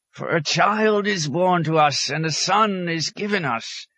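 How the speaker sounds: high, slow, exalted proclamation; fervent scriptural declaiming; blazing prophet. A narrator's reading. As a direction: cry out the prophecy, stretching it. Hermit proclaims scripture, eyes blazing.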